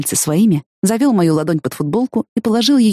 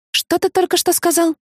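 mock outrage; 11 semitones higher than usual.

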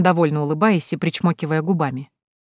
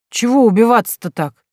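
tipsy scoffing; 5 semitones higher, 5 dB louder than usual. Acted. Tipsy daughter mocks weeping mother.

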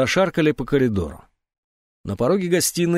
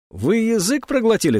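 much higher, sharp question; startled jab; 11 semitones higher than usual. A narrator's reading. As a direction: perk up and needle him. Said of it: "встрепенулась Урсула".

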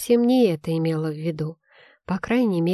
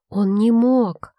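higher, louder, slow insistent denial; indignant protest; 4 semitones higher, 5 dB louder, slower than usual. A narrator's reading. Girl protests friend's accusation.

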